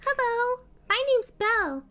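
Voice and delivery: eager kitty greeting; high excited kitty pet voice; bright welcome. Acted. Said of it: "She's like".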